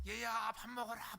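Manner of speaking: lightly voiced mother calling the kid in for dinner; slow, sing-song call to come eat; a hint of a mom calling from the doorstep. Mother calling child home.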